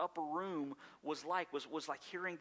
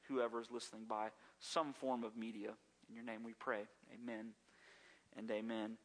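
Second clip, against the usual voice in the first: prayer; 3 semitones lower than usual. Real, not acted. Preacher asking God to help before the sermon, praying. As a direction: lead the room in prayer, easing down to the amen.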